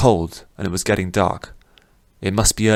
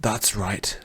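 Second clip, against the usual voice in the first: fading voice; 7 dB quieter than usual. Acted. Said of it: "His voice was getting quieter".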